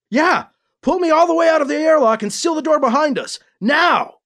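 high, fast, frantic shouted orders; shouting. A narrator's reading. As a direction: shout desperate commands. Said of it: "Alibi shouted".

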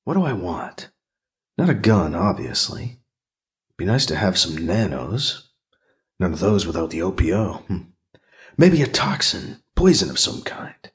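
low, private musing; inner monologue. Acted. Character thinks over weapons.

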